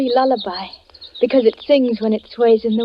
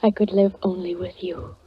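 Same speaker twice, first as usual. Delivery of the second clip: tender whisper; 2 semitones lower than usual. Acted. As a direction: breathe it to your beloved. Bride answers proposal tenderly.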